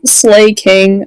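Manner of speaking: loud, hyped cheer; hype cheer. Real, not acted. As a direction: shout it like a fan. Cheering the bride look.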